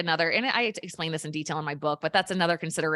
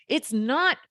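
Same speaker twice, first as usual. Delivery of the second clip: excited laughing protest; 11 semitones higher, 6 dB louder, much slower than usual. Real, not acted. Laughing exasperation about water weight.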